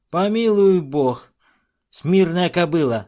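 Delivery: high, loud, slow outcry; dwarf crying out. A narrator's reading. Dwarf to the chief's son, loud high outcry. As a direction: yelp it in outrage. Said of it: "вскричал карлик".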